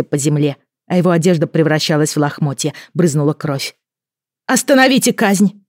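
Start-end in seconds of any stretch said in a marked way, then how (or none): 4.5-5.6 high, loud cry to stop it; shout. A narrator's reading. Queen shouting to stop the execution, high and loud. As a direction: cry out over the crowd. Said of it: "крикнула я".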